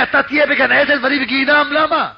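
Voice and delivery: high-pitched imitated lament; wailed, retold complaint; heartfelt crying. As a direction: protest like someone crying his heart out. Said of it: "התחיל לבכות מכל הלב שלו".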